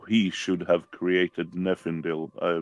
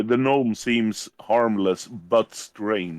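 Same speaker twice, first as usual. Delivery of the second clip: repeated more clearly; 2 semitones higher than usual. Real, not acted. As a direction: say it plainly and a bit firmer to be heard. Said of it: "Come again?".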